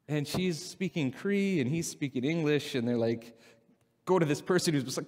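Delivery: usual speaking voice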